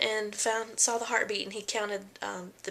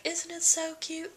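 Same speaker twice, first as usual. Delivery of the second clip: high, slow gushing question; doting question; 9 semitones higher, slower than usual. Retold or imitated. Wife asking her husband about the ultrasound, high slow gush. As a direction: draw out the cuteness to the husband. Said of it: "look at my husband and be like".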